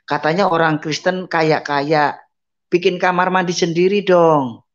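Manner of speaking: scornful neighbour mocking a blind man; sneering taunt. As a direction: taunt him for being a rich Christian. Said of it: "Dibilang gitu".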